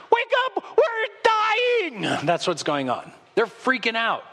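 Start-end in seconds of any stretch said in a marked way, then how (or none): 0.1-2.3 much higher, strained panicked cry; panicked yell. Retold or imitated. Disciples shake Jesus awake, mock panicked cry. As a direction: yell at him in mock terror.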